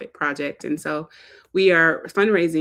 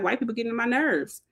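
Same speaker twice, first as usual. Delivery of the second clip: mock venting; 5 semitones higher, 3 dB quieter than usual. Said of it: "go in a certain space and be like".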